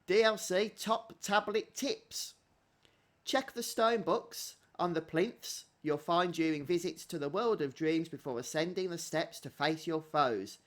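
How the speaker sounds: slow, announcer-like tip read. Acted. Player reading the game's tip screen, slow announcer style. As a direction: read the tips like a promo, slowly. Reads game tip text.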